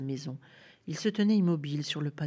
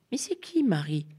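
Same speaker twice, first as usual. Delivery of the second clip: put-on high-pitched little boy on qui; small boy asking who Marie is; child's question; 5 semitones higher than usual. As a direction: ask like a curious little boy.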